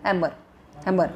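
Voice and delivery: हैमर as "HEM-er" with a faint मर; weak second syllable. Shown as a demonstration. Teacher showing the dead-sounding ending, हैमर with weak मर. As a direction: let मर die away in हैमर. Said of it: "पीछे वाला मर तो एकदम हल".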